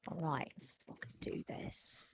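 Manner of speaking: hushed, slow psych-up; whispered hype. Real, not acted. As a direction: whisper it like a pep talk. Hyping up the raid start.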